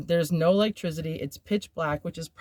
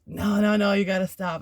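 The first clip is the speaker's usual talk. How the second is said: raised, urgent no no no; mock panicked plea to stop; insistent protest; 3 semitones higher, 3 dB louder than usual. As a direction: push him off, pleading and louder. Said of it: "I'm like".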